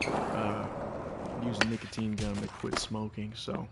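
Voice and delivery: words around chewing gum. Real, not acted. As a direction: talk while chewing gum. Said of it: "I've got some gum in my mouth right now".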